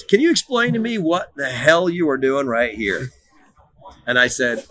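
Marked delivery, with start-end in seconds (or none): 0.0-3.1 scolding dad. Retold or imitated.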